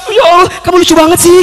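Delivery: high-pitched mock giggly voice; imitated amused interviewer. Interviewer amused by the candidate's answer, high mock-amused voice. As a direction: play someone tickled after crying, pitched high. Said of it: "kemudian dia ketawa".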